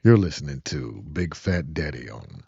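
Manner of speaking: slow, low radio DJ voice; smooth late night DJ. Acted. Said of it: "the late night radio voice".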